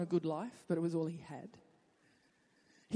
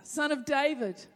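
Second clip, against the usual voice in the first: shouting louder; 4 semitones higher, 5 dB louder than usual. Acted. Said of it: "he only shouted louder".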